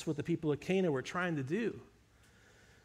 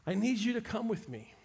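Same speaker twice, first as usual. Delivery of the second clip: soft, hushed desperate plea; pleading father; 5 dB quieter than usual. Retold or imitated. Father pleading quietly with Jesus for his dying boy. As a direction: quietly beg him to come before it's too late. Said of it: "the man pleaded".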